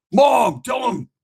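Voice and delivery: high shout to Mom; calling out. Retold or imitated. Sick son shouts for his mom to back him up.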